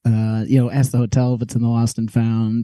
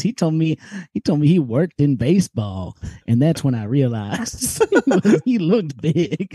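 imitating the taxi lady's thick Kentucky twang; lightly voiced Cincinnati Kentucky accent, higher; 5 semitones higher than usual. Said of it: "This is a wild accent to hear".

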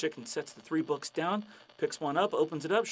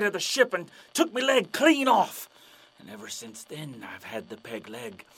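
pirate storyteller; 6 dB louder than usual. Acted. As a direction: spin the tale like an old buccaneer. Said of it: "the pirate's like".

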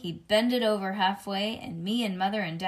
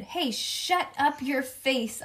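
slightly raised, drawn-out storybook holler; mild holler; 4 semitones higher, much slower than usual. Acted. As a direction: holler it lightly, stretching the words. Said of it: "I hollered".

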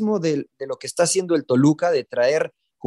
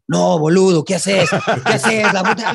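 a laughing, lightly acted scold with a louder start; half-laughing imitation of an Argentine scolding a friend; mock Argentine scolding; 5 dB louder, slower than usual. Argentine friend scolds the speaker for saying "suerte", mildly hammed. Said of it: "me empezó a regañar".

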